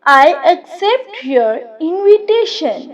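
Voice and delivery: slow. Shown as a demonstration. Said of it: "example sentence repeated twice".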